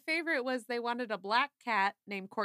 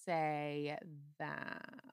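vocal fry; 2 semitones lower, much slower than usual. Real, not acted. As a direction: let the voice crackle into fry. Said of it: "I went into, like, pure vocal fry right there".

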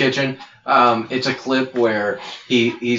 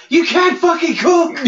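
much higher shrieked insult; mock screaming chef. Chef screams at a child contestant, hammed-up yell. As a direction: yell it into a kid's face. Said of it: "in a nine-year-old's face, just like".

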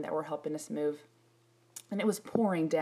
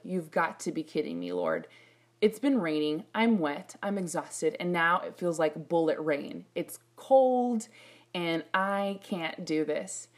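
exasperated. Retold or imitated. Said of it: "I lost it".

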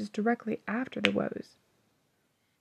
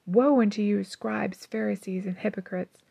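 angry, hateful tone; 3 dB louder than usual. Shown as a demonstration. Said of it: "in an angry, hateful tone".

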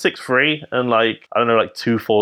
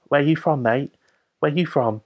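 lightly imitated Cockney; Cockney accent; 3 semitones higher, 3 dB quieter than usual. Tiny French guy accosts him in a Cockney accent. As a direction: put on a matey Cockney. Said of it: "he could affect, like, the best, like, Cockney accent".

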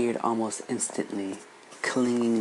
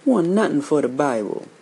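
put-on high, louder shocked protest from a boy; piping up shocked; 4 semitones higher, 6 dB louder, faster than usual. A narrator's reading. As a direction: pipe up in disbelief. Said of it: "piped up".

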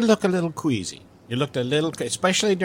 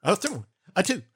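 count-in; 5 semitones higher than usual. Acted. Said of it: "counting in the song".

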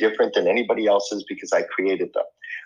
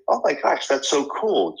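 high, thrilled oh my gosh; amazed doctor; 4 semitones higher than usual. Retold or imitated. Doctor reacting to the infrared scan, voiced high and thrilled. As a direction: imitate the doctor gushing over the result. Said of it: "And so he's like".

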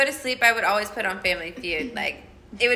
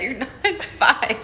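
laughing; much slower than usual. Retold or imitated. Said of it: "and I told her".

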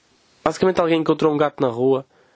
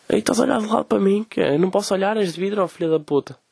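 higher, provoking street tough; mock thug challenge; 5 semitones higher than usual. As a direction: taunt like a picked fight. Acts out aggressive stranger's challenge.

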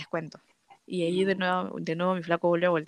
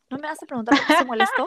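put-on higher, louder, fast whiny girlfriend voice; mock clingy girlfriend; 6 semitones higher, 4 dB louder, faster than usual. Teasing the boyfriend by acting him as a whiny girlfriend. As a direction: ham up a needy girlfriend's whine. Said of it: "Así como flaca".

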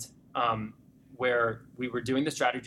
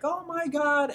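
much higher, stunned little cry; overwhelmed gasp; 3 dB louder, slower than usual. Retold or imitated. Client learning she hit her goal, much higher stunned cry. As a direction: imitate the client's tearful disbelief, pitched way up. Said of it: "And she's like".

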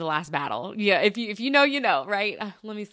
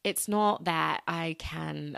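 careful, halting attempt at British accent; amateur British accent, slowing down; slower than usual. Shown as a demonstration. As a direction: think through each word in a British accent. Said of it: "when I try to speak with a British accent".

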